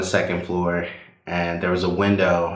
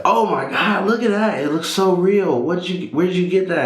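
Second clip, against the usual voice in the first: much higher, loud, astonished gasp; amazed brother; 12 semitones higher, 3 dB louder than usual. Retold or imitated. Older brother seeing the Lego gun for the first time, amazed and high-pitched. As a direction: act stunned by how real it looks.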